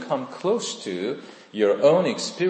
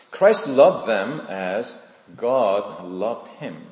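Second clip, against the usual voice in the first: slow emphatic statement; 4 dB louder, slower than usual. Shown as a demonstration. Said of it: "So this is what I've discovered".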